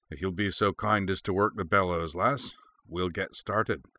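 lightly voiced gruff dwarf smith; courteous request with a gruff edge; a hint of a craftsman setting to work. A narrator's reading. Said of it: "said the dwarf in a gruff voice".

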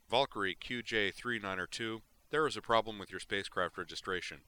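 lightly voiced patrol pilot on the radio; formal order over the comm; comm officer. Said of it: "said a voice on the comm".

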